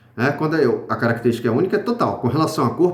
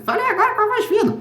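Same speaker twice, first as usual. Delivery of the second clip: much higher, fast, squeaky falsetto; high thin voice; faster than usual. Shown as a demonstration. Teacher demos a thin voice to the class, high falsetto.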